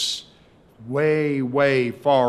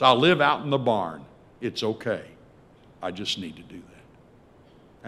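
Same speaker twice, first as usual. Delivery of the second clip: plea fading to resignation; 2 semitones lower than usual. Acted. Son asks his father to let him live in the barn, pleading then resigned. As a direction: let the plea run down to a small, humble request.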